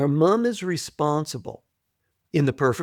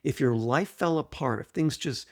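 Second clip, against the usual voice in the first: guided exercise voice; 3 dB quieter than usual. Acted. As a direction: lead the listener gently into the question. Repeats exercise question.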